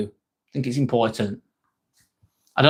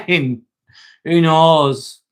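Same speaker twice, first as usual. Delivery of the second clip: laughing. Real, not acted. Laughs at a chat question.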